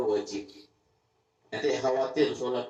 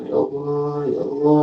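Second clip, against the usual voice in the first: a loud, tearful cry of ya Allah; crying out to God; 4 semitones higher, 7 dB louder than usual. Retold or imitated. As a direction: plead aloud like weeping at night. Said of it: "nangis, teriak". (seruan menangis kepada Allah)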